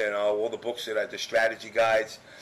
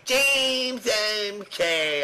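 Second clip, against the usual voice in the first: higher, loud sing-song greeting of the name; calling out; 11 semitones higher, 3 dB louder, much slower than usual. Retold or imitated. Tom Brady walking up and greeting Jimmy, loud sing-song call. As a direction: hail him like an old friend.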